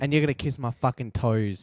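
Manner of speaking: mock British Queen; slipping, silly British accent. Queen orders a homeowner about, mock British accent. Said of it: "I lost my British accent".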